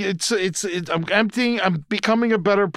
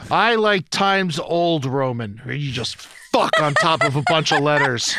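laughing joke; 2 semitones lower than usual. Real, not acted. Joke about font, laughing.

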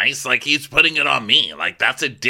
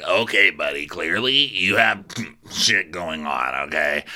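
condescending Craig; 6 semitones lower than usual. Retold or imitated. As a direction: talk down to him. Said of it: "Craig's like".

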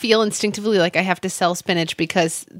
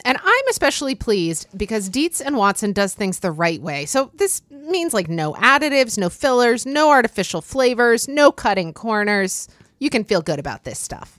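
upbeat sponsor read; 3 semitones higher than usual. Acted. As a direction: read it like a podcast ad.

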